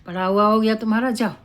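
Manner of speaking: fast, offhand mock send-off; teacher imitating how he sends pupils off, quick and offhand; brisk dismissal. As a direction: rattle it off like shooing students out. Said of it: "ऐसे बोलते हैं ना हम लोग".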